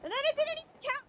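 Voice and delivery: high, loud, very fast protest; indignant rapid-fire yell; outraged complaint. Real, not acted. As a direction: blurt it out in high-pitched outrage. Outraged at the game.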